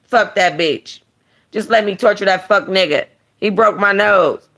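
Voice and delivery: lightly voiced angry thug; Royale voice. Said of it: "I gotta do the voice right".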